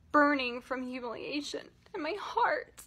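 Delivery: fighting back tears; choking up. Real, not acted. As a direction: voice catching on tears while telling it. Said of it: "I didn't think I would cry so much".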